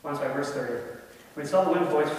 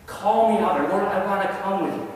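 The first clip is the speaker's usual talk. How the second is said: pleading with the Lord; 3 dB louder than usual. Retold or imitated. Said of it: "He's pleading".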